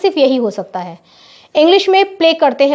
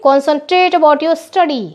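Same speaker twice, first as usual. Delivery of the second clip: slow dictation; much slower than usual. Shown as a demonstration. Teacher dictating slowly to her pupils. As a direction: spell it out slowly, word by word. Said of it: "कैसे बोलेंगे?".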